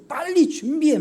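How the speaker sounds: high, sharp order to get ready; imitating a frazzled mother; impatient hurry-up. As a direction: rush the kids out the door. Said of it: "막 이러는 거예요".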